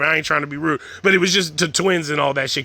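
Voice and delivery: usual speaking voice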